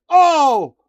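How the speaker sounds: a hammed-up Irish accent from the trailer; mocking McGregor's accent. Mocking Conor McGregor's accent in the trailer. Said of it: "couldn't you have at least tried".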